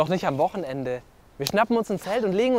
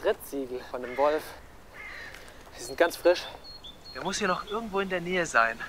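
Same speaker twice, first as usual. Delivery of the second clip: measured, hushed documentary-style commentary; suspenseful presenting; 4 dB quieter than usual. Acted. Filmmaker presenting wolf tracks for a video, building suspense. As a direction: build suspense for the camera in short phrases. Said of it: "um Spannung zu erzeugen".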